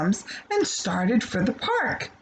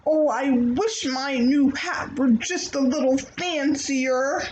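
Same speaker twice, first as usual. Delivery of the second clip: wishful; 3 semitones higher than usual. Acted. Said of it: "wished out loud".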